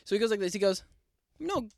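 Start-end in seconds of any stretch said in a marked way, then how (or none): 1.4-1.7 sing-song condescending brother, pitched up; mock patronizing praise. Imitating his brother talking down to him, sing-song. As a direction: pat him on the head with your voice.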